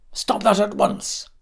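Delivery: alarmed parent's outburst, read aloud; scream. A narrator's reading. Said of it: "I screamed".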